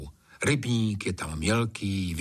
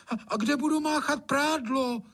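very high indignant maid; indignant outburst. A narrator's reading. Anče blurting out her protest, indignant. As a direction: burst out in protest. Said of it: "vyjela Anče".

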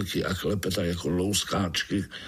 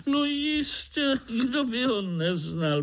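much higher, amazed frog voice; surprised frog. Acted. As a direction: she can't believe anyone doesn't know it. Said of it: "podivila se rosnička".

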